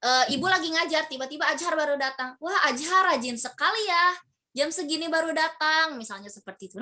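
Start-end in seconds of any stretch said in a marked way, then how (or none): 2.4-5.9 a touch of sweet mock praise; ironic praise. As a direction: praise the latecomer with a hidden jab. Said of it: "Nah, itu ironi". (guru memuji Ajar yang terlambat dengan nada ironis)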